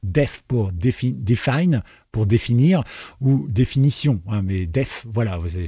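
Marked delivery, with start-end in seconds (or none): 1.1-1.8 "define" pronounced as an English word. Shown as a demonstration. Explaining the keyword def, English pronunciation of "define". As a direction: say "define" the English way, with a French accent. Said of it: "c'est le mot anglais".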